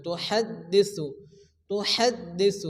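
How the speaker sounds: تحدث with air pushed out on the ha; breathy ha. Shown as a demonstration. Teacher shows the breathy ha in تحدث. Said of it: "মুখ দিয়ে বাতাস বের করে উচ্চারণ".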